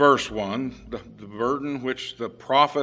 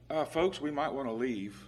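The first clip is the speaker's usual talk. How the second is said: softer, casual, almost offhand warning; calm understatement; 9 dB quieter than usual. Shown as a demonstration. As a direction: tell the crowd gently, no alarm at all. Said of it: "and you might go".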